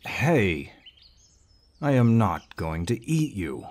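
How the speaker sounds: a sharp call, then the reassurance. Acted.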